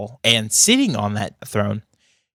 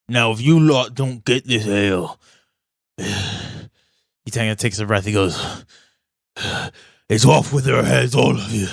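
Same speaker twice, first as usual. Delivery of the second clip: mock royal threat. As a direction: threaten them like a petulant king. King threatens the party.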